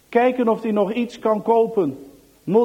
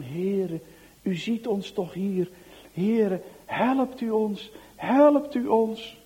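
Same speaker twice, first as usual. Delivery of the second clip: slow, pleading prayer; desperate prayer; slower than usual. Acted. Children crying out to God while fleeing, slow pleading prayer. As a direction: cry to God slowly, begging.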